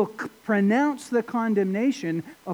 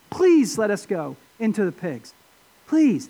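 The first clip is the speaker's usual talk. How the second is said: emphatic retold plea, leaning on PLEASE; imitated begging, mildly pressed. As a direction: plead on behalf of the demons, stressing please. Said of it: "they beg him".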